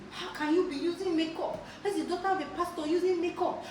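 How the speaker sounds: high, laughing mock scold; mock scolding with laughter. Church folk scolding a pastor's daughter, laughing mock scold. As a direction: imitate gossips, laughing.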